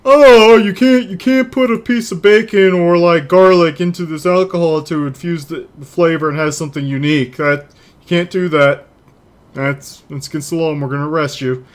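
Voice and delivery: lightly voiced indignant politician; a hint of a preachy lawmaker scolding; weird politician voice. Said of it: "that's my weird politician voice".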